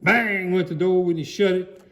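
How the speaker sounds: plain reading voice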